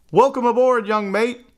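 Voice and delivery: high, hearty welcome; cheery high-pitched call of welcome; gleeful call. A narrator's reading. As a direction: call out with glee. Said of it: "the men gleefully called out".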